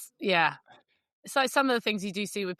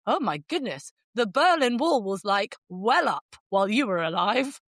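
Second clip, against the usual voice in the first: posh guy. Retold or imitated. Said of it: "the guy is very posh".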